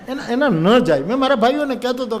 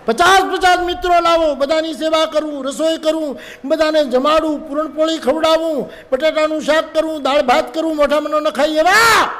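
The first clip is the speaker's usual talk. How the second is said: angry wife; 7 semitones higher than usual. Retold or imitated. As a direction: rattle off her duties, pitched up high. Wife scolding husband.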